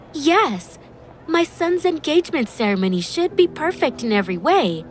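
put-on high, insistent older relative; high-voiced, demanding mother. A narrator's reading. Groom's mother interjects haughtily.

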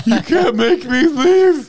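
loud, high, slow, laughing defiance; defiant shout. Retold or imitated. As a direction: yell it like a stubborn protester. Acting protester chained to restaurant.

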